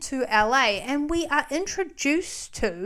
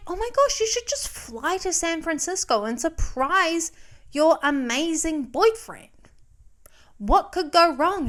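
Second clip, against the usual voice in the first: mock romantic enthusiasm; 4 semitones higher than usual. Voices Reed's delusional romantic brain.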